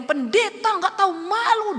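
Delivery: high, loud insult; raging debt collector. Retold or imitated. The debt collector shouts at the pastor outside her house, furious. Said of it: "Dia ngamuk".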